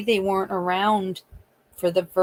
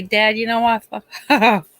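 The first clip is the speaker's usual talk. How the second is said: loud, fed-up curse; exasperated outburst; 2 semitones higher, 7 dB louder than usual. Retold or imitated. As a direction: blurt it out in frustration. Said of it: "waiting for Alex to say".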